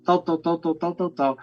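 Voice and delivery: soft, courteous interruption; polite quiet request. Retold or imitated. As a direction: ask permission gently. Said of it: "você então diria". (pedido educado e baixinho)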